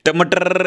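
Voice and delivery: "টমাটার" with a long rolled final R; exaggerated trilled R. Shown as a demonstration. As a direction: roll out the R at the end of "টমাটার". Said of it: "এইভাবে বলবে না". (লম্বা কাঁপানো র দিয়ে টমাটার)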